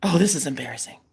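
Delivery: soft mortified aside; embarrassed whisper. Real, not acted. Mortified aside during retold call.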